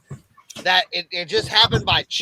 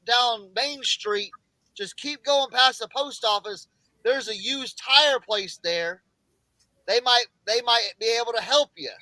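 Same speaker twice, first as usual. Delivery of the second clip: put-on old man; 5 semitones higher than usual. Old man giving directions.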